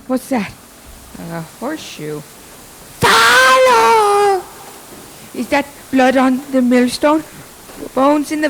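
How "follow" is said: higher eerie call, a bit louder; ghostly summons. Acted. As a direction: beckon like a lurking spirit. Ghost calls again in the mill.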